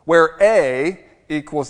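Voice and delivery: slow formula. Shown as a demonstration. Pastor teaching math geeks a formula: slow and deliberate. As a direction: spell the formula out slowly. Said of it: "Here's a formula for you".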